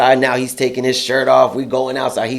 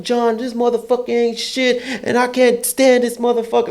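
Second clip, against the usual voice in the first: mock angry coworker; 10 semitones higher than usual. Angry rant quoted.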